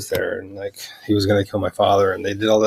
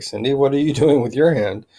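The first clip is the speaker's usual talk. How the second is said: higher-pitched retold question, half laughing; laughing protest; 5 semitones higher, 4 dB louder than usual. Speaker asking Cindy about the pushed hand, amused protest. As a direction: act out a mock-alarmed question with a laugh.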